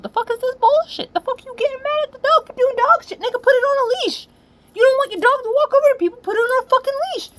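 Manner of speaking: high, loud, fast angry yelling; furious rant. Real, not acted. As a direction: rip into the careless dog owner at full volume. Ranting at the dog owner.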